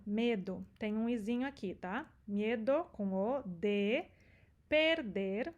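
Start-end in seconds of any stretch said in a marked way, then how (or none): 4.7-5.5 "perder" with tapped tongue-tip r; "perder" with southern Brazilian r; gaúcho R. Shown as a demonstration. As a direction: flick both r sounds in "perder". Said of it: "o R gaúcho".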